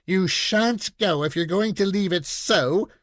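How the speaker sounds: cling and beg not to go; pleading little girl. Acted. Little girl begs papa to stay, pleading.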